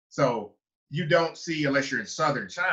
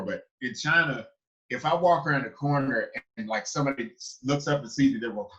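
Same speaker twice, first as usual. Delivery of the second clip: ordinary talk, nothing marked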